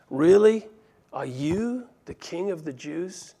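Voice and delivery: sneering, doubtful question; mocking. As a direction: scoff at the prisoner's claim. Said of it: "in this mocking tone".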